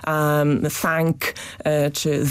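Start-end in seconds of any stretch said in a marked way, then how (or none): 0.8-1.2 "thank" with a voiceless th; English th sound. Shown as a demonstration. Expert gives the hard English th sounds. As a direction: breathe the th in "thank" through the teeth. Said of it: "dźwięków, zapisywanych po angielsku poprzez T H".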